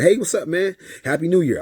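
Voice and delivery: high, loud, friendly hello; hearty greeting. Retold or imitated. Dad greeting his ex's new man at New Year, hearty. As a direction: greet him big, as if all is fine.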